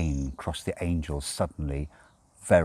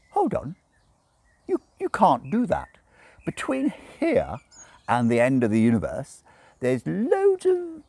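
high, fussy tipsy angel objecting; prim angel voice, a bit drunk; fussy angel protesting; Aziraphale voice; 10 semitones higher, 4 dB louder than usual. A narrator's reading.

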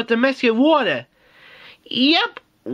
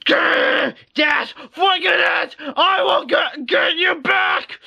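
angry vow; 3 semitones higher, slower than usual. Acted. Toy character swears revenge.

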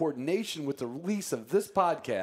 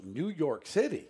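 slow, higher, announcer-style city name; hard sell ad; 5 semitones higher, slower than usual. Shown as a demonstration. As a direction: say it like a TV commercial. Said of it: "I have to say it like a commercial".

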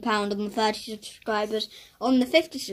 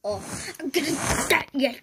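annoyed sister; 2 semitones higher, 4 dB louder than usual. Retold or imitated. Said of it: "my impression of Iris when she's annoyed".

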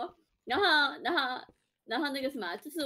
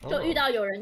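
ordinary delivery

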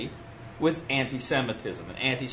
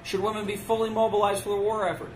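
rousing speech question; 6 semitones higher, faster than usual. Retold or imitated. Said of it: "He says".

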